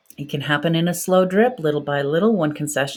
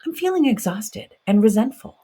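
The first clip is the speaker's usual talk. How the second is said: inner outburst; 4 semitones higher than usual. Pretend. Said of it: "just wants to scream".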